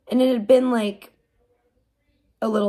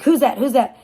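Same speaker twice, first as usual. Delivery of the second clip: quick, raised and louder, hoping it's mom; anxious eager; 3 semitones higher, 5 dB louder than usual. Retold or imitated. Mother calling after the scare, anxious and eager. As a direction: blurt it out in a rush of hope.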